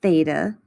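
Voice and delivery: theta said THAY-tuh; careful teacher's theta, first syllable like "they"; pronunciation of theta. Shown as a demonstration. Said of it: "is pronounced".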